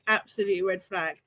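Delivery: "Absolute red flag" dropped low and soft. Real, not acted. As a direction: murmur it again under your breath. Echoing her own verdict.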